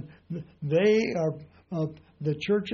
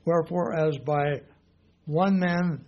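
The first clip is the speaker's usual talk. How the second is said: louder scripture read, "one" hit hard; stress on one; 4 dB louder than usual. Shown as a demonstration. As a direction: read the verse, leaning on "one". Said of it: "not sin singular".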